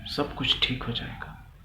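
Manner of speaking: soft, hushed comforting words; softly spoken, soothing; gentle reassurance. Acted. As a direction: quietly reassure a frightened small child. Soldier comforts a frightened little girl.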